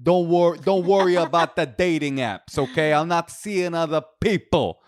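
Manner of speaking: laughing through a breezy South African impression; South African accent. Imitating the boyfriend brushing off dating apps in a South African accent. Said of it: "this is my South African accent".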